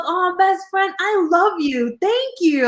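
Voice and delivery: put-on high, sweet child voice; sweet little boy. Cousin thanking her, high and sweet. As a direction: coo it like a grateful kid. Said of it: "He goes".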